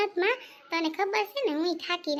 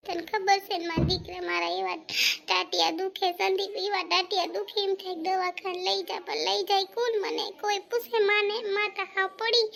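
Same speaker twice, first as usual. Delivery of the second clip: put-on complaining old mother; 5 semitones higher than usual. Old mother complains of aching legs.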